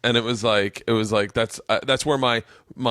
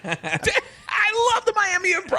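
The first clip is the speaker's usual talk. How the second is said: laughing gush; slower than usual. Real, not acted. Laughing gushing about club.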